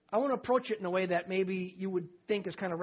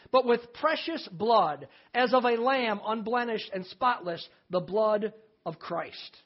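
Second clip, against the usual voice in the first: scripture reading; 3 dB louder than usual. Acted. Reads scripture aloud to congregation.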